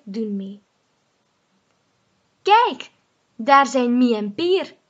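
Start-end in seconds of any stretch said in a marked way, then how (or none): 2.4-4.8 calling out. Acted. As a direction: call out and point. Spotting friends, calling.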